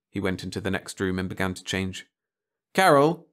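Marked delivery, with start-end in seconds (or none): 2.7-3.3 calling across the house. Acted. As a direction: call her name from the next room. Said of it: "he called".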